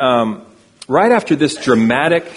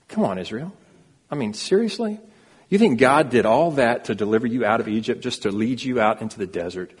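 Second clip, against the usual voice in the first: mock incredulous scolding, voice jumping up on seriously; exasperated disbelief. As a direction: chide Israel like an exasperated friend. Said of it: "and we read that and we're like".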